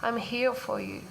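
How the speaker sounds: put-on mother soothing her little inner child; loving inner mother. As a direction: comfort a hurt child gently. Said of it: "my inner loving mother grabbing me and say".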